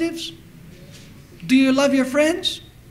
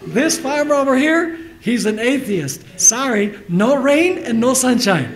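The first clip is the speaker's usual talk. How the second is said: louder, slowing mock verdict; God judging like people; 3 semitones higher, 5 dB louder than usual. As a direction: pronounce a loud, mock divine refusal. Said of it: "What if God was like us? God says".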